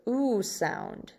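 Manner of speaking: "oo" as the vowel in tube; long U sound. Shown as a demonstration. Teacher explains long U to the class, a clear "oo". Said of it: "the long U makes the".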